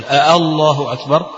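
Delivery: أ-، الله أكبر with an extra hamza clipped before الله; double hamza. Shown as a demonstration. Teacher shows a wrong takbir with two hamzas. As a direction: stutter a second hamza onto الله. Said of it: "يعني يقول".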